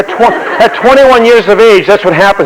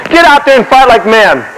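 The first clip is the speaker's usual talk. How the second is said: acted commander's order; 4 semitones higher than usual. Acts Braddock berating his men.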